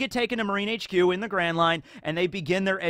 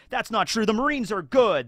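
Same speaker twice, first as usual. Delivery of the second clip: Kobe insisting; 6 semitones higher, 3 dB louder than usual. Retold or imitated. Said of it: "And Kobe's like".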